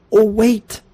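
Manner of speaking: sudden high fake alarm, teasing; sly prank "oh wait"; mock alarm. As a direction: pretend you just spotted a problem with his lock. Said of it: "and I go".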